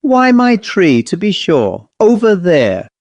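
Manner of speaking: a wet owl in a hurry to get to its tree; anxious bossy owl. A narrator's reading. Owl answers impatiently.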